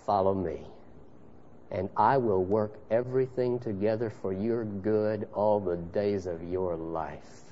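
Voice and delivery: soft, low and slowing at the end; gently invite, face to face; tender invitation. Acted. Son of God gently inviting the rescued sinner. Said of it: "looks you in the face and says".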